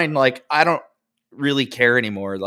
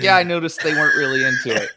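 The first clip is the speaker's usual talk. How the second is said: mock incredulous repeat; 4 semitones higher, 5 dB louder, faster than usual. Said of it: "She literally said that".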